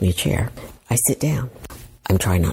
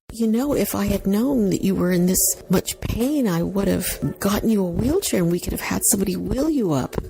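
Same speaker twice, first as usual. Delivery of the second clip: friend's apology; 9 semitones higher than usual. Retold or imitated. Friend's sympathetic line, acted.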